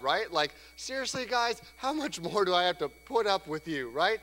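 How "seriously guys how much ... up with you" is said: exasperated Jesus. Retold or imitated. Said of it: "He kinda calls them out".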